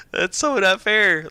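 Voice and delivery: laughing whine. Retold or imitated. Repeating her envious gripe to friends, slow laughing whine. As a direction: drag it out through a laugh, half-joking. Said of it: "And I'm just like".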